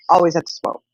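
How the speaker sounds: lightly mimicked kid nagging; daughter's nagging. Mom repeating daughter's smoking complaint, light mock whine. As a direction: echo the child's complaint. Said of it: "She said".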